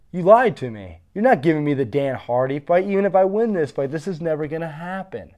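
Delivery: retold anger. Fighter telling the UFC they lied, heated mock anger. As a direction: replay the irritation at being lied to, mildly. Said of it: "I was kinda pissed about that".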